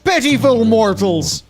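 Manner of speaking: slow, high, booming villain; booming demon lord. Pretend. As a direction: drag it out like a gloating demon lord. Mocking villain voice of Blizzard lore.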